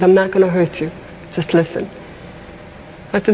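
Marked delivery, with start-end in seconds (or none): 0.0-1.9 softer and lower, fading quiet; calm him down gently; reassuring a scared student, hushed and soft; gentle reassurance. Retold or imitated. Comforting the kid in front.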